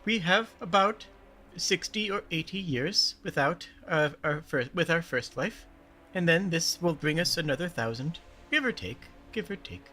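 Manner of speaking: slow, softly sighing reckoning; Lon. Acted. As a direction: weigh it up slowly, fading to quiet. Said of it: "Lon sighs and says".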